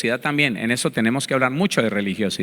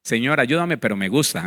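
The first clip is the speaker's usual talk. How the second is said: insincere prayer; 3 semitones lower than usual. Retold or imitated. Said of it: "Eso no".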